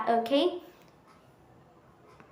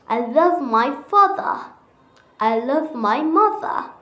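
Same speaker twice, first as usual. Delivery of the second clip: British accent; 2 semitones higher than usual. Shown as a demonstration.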